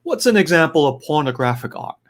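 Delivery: a hint of a Joe Campbell impression. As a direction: lightly imitate the scholar posing his question. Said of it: "Let me do my best Joe Campbell voice".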